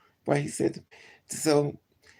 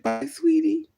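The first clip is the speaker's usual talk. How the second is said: sweet goodbye; 11 semitones higher, 5 dB louder, slower than usual. Retold or imitated. Cashier's farewell voiced.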